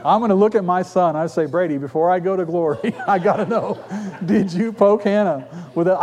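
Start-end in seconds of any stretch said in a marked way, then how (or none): 1.5-6.0 dying father. Pretend. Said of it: "when I'm laying on my deathbed".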